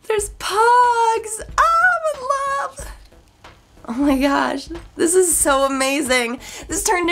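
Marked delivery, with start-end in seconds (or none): 0.1-2.9 voice cracking. Real, not acted. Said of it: "my voice is just cracking".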